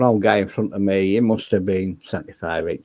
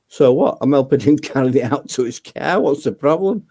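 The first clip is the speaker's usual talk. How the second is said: higher, exasperated mock comeback; indignant retort; 5 semitones higher than usual. To the cashier about helping the old man, indignant. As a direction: throw it back at her, outraged.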